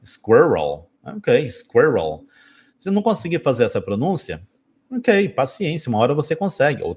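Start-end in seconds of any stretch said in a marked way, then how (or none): 0.0-0.9 squirrel said low, iskweol; squirrel model. Shown as a demonstration. Teacher models squirrel for students. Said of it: "como é que fala squirrel". 1.5-2.2 squirrel said slowly, skerol; drawn-out squirrel. Shown as a demonstration. Teacher repeats squirrel slowly for students. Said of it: "como é que fala squirrel".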